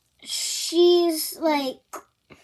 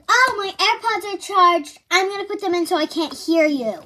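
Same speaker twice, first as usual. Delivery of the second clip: sassy brush-off; 4 semitones higher, 3 dB louder, faster than usual. Retold or imitated. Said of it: "and I was like".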